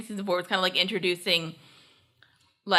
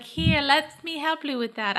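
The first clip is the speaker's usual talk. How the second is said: higher, slow, shaky stab at posh British; badly faked British accent, sweetly helpful; attempted British accent; 4 semitones higher, slower than usual. Podcaster imitates character offering help, failed British accent. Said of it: "I can't do her accent".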